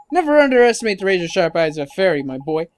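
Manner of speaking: lightly voiced cocky fairy, emphatic; boastful fairy sidekick. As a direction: brag like a feisty little sidekick.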